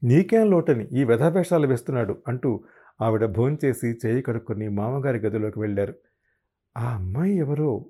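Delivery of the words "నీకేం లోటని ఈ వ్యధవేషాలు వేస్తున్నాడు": angry. Acted. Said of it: "అన్నారు ఆమె కోపంగా".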